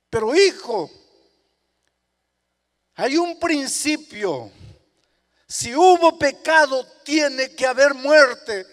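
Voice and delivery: preacher voicing Jesus; fervent preaching. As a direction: preach it with fire. Jesus and sinner dialogue.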